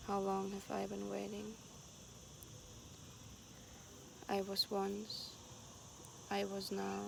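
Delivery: even, unhurried poem recital; poem reading. Acted. Poet reads the text written while hiking, unhurried recital. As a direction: leave long pauses between short lines.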